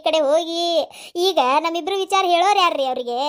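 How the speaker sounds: mock wailing lament. Daughter-in-law wails over dead woman.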